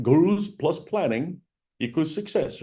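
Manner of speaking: half-hearted Australian accent imitation; slow, badly faked Australian accent; attempted Australian accent. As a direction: have a rough go at an Australian accent. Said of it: "in his Australian accent".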